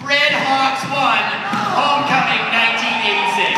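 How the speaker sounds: shouting. Acted. Announcing the game result.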